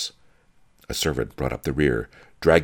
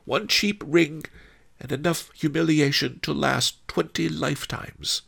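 Pretty Ping, aggrieved; 11 semitones higher than usual. A narrator's reading. Humiliated concubine lists her few possessions, high plaintive voice. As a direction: tick off each cheap thing, high and measured.

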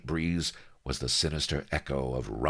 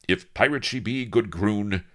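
high, ringing heroic briskness; rally him briskly; 5 semitones higher, 3 dB louder than usual. Acted. Avery to his companion as action nears, brisk. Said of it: "quo he briskly".

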